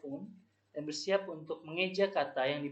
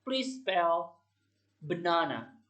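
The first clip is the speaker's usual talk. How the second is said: pronouncer's request; much slower than usual. Shown as a demonstration. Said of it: "Jadi contohnya seperti ini".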